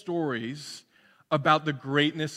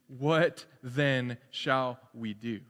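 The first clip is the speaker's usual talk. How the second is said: slow deliberate question; 5 semitones lower, 4 dB quieter, much slower than usual. Shown as a demonstration. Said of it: "And how does John reply to".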